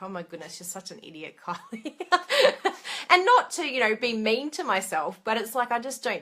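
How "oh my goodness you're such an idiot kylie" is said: soft and laughing, much quieter; laughing at herself. Retold or imitated. Laughing at her own video, soft and amused. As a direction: tease yourself gently with a laugh. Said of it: "I just laugh at myself".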